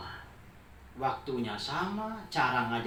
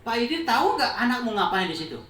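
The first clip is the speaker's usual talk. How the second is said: sly gossip; 8 semitones higher, 8 dB louder, faster than usual. Acted. Gossip-monger baits the father.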